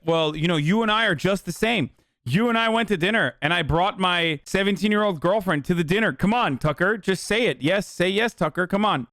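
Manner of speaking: high, wheedling parody of the guest; mock pleading guest. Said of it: "He's like".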